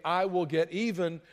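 a mild hint of getting even; grudging. Shown as a demonstration. Preacher contrasting the vengeful heart, mildly grudging. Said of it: "a heart that doesn't say".

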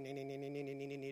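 soft, quick repeated nee beeps; imitating detector beeps. Telling the church about fixing his dog wire, soft beeping imitation. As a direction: mimic a metal detector beeping under your breath. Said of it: "this little detector that's going".

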